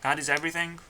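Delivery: "God is everything?" asked with a questioning doubt; doubtful question. Real, not acted. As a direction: turn "everything" into an unsure question.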